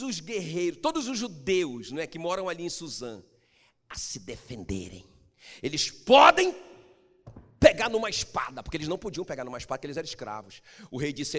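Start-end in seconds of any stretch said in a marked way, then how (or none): 5.6-8.6 loud, high proclamation; proclaiming. Real, not acted. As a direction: burst out with the good news. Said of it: "preaching climax". (proclamação em voz alta)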